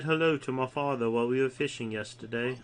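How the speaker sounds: lightly mimicked proper British English; proper British accent. Co-host imitating how proper British Clem talks, proper British accent. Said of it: "Clem's so proper".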